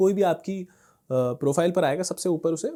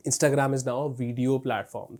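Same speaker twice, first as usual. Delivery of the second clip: slow quoted pronouncement; 4 semitones lower, 4 dB quieter, much slower than usual. Retold or imitated. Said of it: "Instagram के CEO ने खुद आके क्या बोला".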